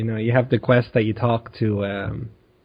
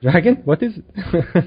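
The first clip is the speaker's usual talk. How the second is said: guard; 4 semitones higher, slower than usual. Retold or imitated. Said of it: "all the guards say that".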